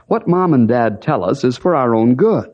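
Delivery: normal talking voice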